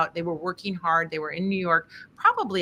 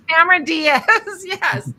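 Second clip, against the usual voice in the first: name bursts out high and loud; suddenly remember the name, loud and high; excited recall; 10 semitones higher, 9 dB louder than usual. Real, not acted.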